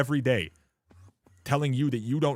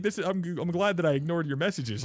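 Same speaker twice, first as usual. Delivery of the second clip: retold scolding; 6 semitones higher than usual. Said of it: "I was like".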